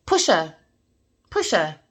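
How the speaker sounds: low voice of ancestors urging; a hint of a low spirit voice commanding; ancestors' command. Ancestors urging her to push the woman, low and firm. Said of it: "My ancestors said".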